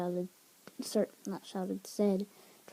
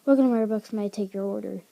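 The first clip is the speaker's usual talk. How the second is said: rapid, loud service script; fast cashier patter; 9 dB louder, much faster than usual. Acted. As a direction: rattle it off like a barista. Pretending he is just a customer.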